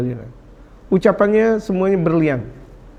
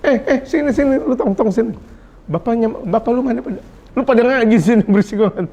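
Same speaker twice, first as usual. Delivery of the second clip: higher-pitched mock telling-off with a laugh; mock scolding; 4 semitones higher than usual. Preacher imitates adult rounding up noisy mosque children, mock scolding. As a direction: play a half-joking scold calling children over. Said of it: "Tapi orang yang bijak".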